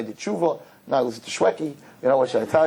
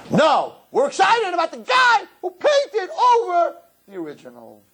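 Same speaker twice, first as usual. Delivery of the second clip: rapturous awe; 12 semitones higher than usual. Acted. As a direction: gush over God's sky. Rapturous praise then scolding.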